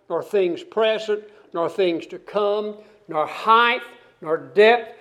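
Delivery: rising, building solemn reading; scripture reading. Acted. Preacher to congregation, reading scripture with building fervour. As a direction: proclaim the list of powers as it builds. Reads the rest of the passage.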